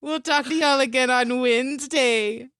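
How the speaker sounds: little creature earnestly reading, stretching the last words; Mort. Acted. Podcast host thanks listeners in the outro, Mort impression. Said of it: "the best Mort impression I've ever heard".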